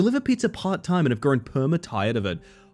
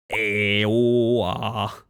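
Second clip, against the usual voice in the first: normal talking voice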